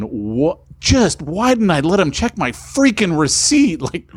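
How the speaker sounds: exasperated self-reproach, pitch climbing; mildly frantic, high-pitched questioning of yourself; retold freaking out. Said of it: "like, freaking out, going".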